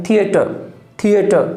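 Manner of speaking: थिएटर as thia-tuh; ia diphthong. Shown as a demonstration. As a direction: drop the final r of थिएटर after an ee-uh glide. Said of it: "ऐसा नहीं है".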